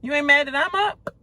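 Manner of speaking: imitating Dan's needy question; mocking his complaint. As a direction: parody his wounded ask. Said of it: "He was like".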